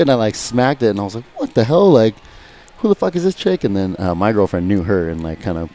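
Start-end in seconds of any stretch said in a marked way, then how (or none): 1.4-3.6 high, indignant mock disbelief; shocked outrage. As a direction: squeal the outrage like you can't believe it. Retold confrontation in the crowd.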